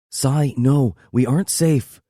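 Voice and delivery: playful half-hearted refusal; half-hearted protest. Acted. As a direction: protest without meaning it. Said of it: "She pushes back".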